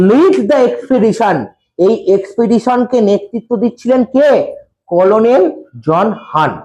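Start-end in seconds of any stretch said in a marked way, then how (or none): 0.1-1.4 very slow, word by word; slow dictation. Shown as a demonstration. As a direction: read it out slowly so pupils write it. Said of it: "teacher dictating slowly". (ধীরে ধীরে পড়ে শোনানো)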